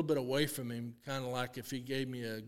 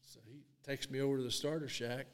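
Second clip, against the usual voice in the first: ordinary talk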